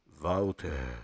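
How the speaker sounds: very low, slow booming God voice; deep cinematic voice of God; movie trailer voice. Pretend. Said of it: "Essa voz de cinema é necessário?".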